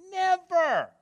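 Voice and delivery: NEVER jumps high and punched; emphatic never. Real, not acted. Preacher insisting to the congregation, emphatic high stress. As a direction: slam the single word Never home.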